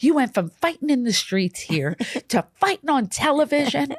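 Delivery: imitating mom's exasperated outrage, pitch climbing; retold scolding that rises in disbelief; furious mom. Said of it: "she was furious".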